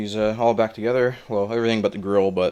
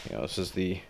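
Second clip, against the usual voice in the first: breathless whisper, panting between words; out of breath; 8 dB quieter than usual. Real, not acted. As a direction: talk while still catching your breath. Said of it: "sorry, I'm all out of breath".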